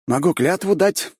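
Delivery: lightly voiced eager young man; eager offer. A narrator's reading. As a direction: jump at the offer. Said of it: "с готовностью предложил Марк".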